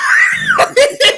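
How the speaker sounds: high shrieking burst of laughter; real wild laugh; loud laugh. Real, not acted. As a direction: howl with laughter.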